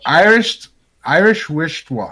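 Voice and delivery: "Irish wristwatch" with a false start, slightly slurred; slurred tongue-twister. Real, not acted. Host retrying the challenge, "Irish wristwatch" sounding drunk. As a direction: stumble on "Irish", then smudge "wristwatch" tipsily. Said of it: "I sound drunk".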